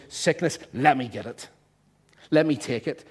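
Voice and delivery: firm, assertive acted command; mild aggression. Jesus confronting sickness on his children's behalf, mildly aggressive. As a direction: lay claim to it, mildly forceful. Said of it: "There's an aggression there".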